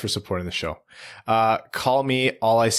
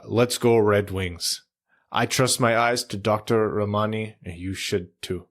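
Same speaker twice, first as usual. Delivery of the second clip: mild, half-hearted player impression; Pavel Datsyuk. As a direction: attempt a slight celebrity impression, easing into the words. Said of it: "in a Pavel Datsyuk voice".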